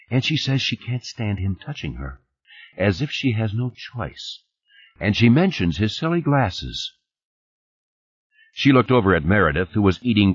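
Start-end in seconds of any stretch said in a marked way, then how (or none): 0.1-6.9 lightly voiced woman, pitch raised; a hint of a woman's voice, insistent; Fernandez, pressing her point. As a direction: lay out the clues, pointedly.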